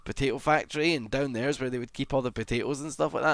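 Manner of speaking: light Welsh impression of a colleague; imitated Welsh accent. Streamer retelling Daff's potato factory story, imitated Welsh accent. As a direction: tell a tall tale in mock Welsh. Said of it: "in his, like, Welsh accent".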